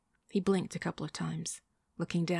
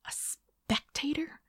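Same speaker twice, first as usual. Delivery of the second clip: slow echo swooping high into a question; incredulous; 9 semitones higher, slower than usual. A narrator's reading. Woman repeating her date's word, incredulous. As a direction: draw out "spectator" in disbelief.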